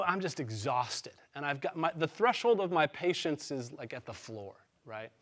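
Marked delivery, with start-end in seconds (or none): 0.0-1.1 slow, worn-out delivery, a little lower; weary and drained. Retold or imitated. Pastor retelling his exhausted Friday night, slow and weary. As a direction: let each word drag with fatigue. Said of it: "I go".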